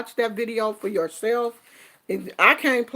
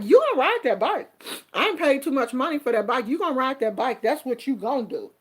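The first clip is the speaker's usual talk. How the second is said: strict mother; 3 semitones higher, faster than usual. Retold or imitated. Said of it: "I was one of them kind of mothers".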